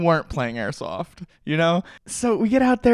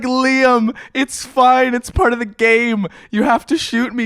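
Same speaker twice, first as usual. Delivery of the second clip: laughing reassurance; 10 semitones higher, 7 dB louder, slower than usual. Retold or imitated. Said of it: "And I just start laughing".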